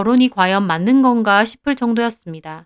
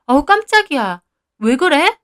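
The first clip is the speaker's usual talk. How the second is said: mildly startled, higher-pitched question; 5 semitones higher than usual. Acted. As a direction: react as if caught off guard. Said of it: "저는 깜짝 놀랐어요". (깜짝 놀란 목소리)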